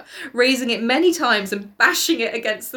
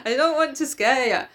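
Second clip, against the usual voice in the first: higher, hammed-up confession breaking into laughter; mock lovesick Gregor; 5 semitones higher than usual. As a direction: confess a crush, comically pleading. Voicing Gregor wooing his sister.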